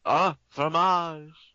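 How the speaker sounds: drawn-out mock French accent. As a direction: stretch it out in a put-on French accent. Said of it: "we're done with Andy's French accent".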